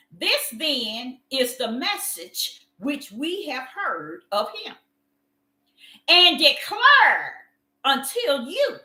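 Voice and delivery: slow solemn scripture reading. Acted. Preacher reading First John to the congregation, slow and solemn. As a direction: read each word slowly to the congregation. Reads scripture aloud slowly.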